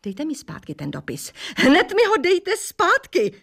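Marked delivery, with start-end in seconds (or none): 1.6-3.3 yelling. A narrator's reading. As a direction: shout it at her, much higher. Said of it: "křičela slečna Mosová". (pomalý, vysoký křik)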